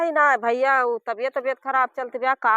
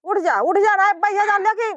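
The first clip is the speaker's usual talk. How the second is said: shouting; 4 semitones higher than usual. Acted. Wife grabs stick, shouts.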